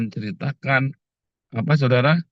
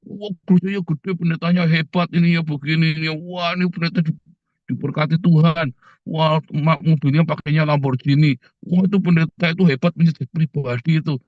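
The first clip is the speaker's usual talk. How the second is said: higher, gushing imitation of a churchgoer boasting; lightly mocking, starry-eyed church booster; mock church bragger; 3 semitones higher than usual. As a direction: parody a fan raving about a pastor's Lamborghini. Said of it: "tiap kali ketemu orang".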